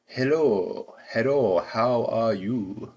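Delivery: put-on katakana English, Japanese accent, high and slow; mock a Japanese-accented English greeting. Vlogger mocking Japanese-accented English in a Japanese accent. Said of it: "but in a Japanese person's accent".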